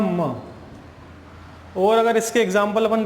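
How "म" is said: M said as "म", not the letter name; letter sound demo. Shown as a demonstration. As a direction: sound out "म" with a short vowel. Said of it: "एम का उच्चारण क्या हो रहा है".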